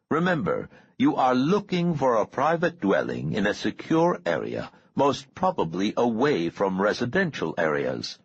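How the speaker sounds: measured, emphatic orders to a subordinate; commanding boss on the line. Acted. Boss instructing his man on a search, lightly voiced command.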